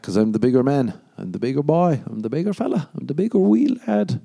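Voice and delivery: climbing from normal to high pitch; mock boasting.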